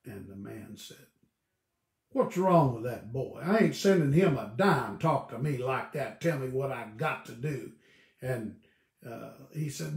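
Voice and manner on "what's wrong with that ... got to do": indignant father. Retold or imitated. Father angry at son's letter.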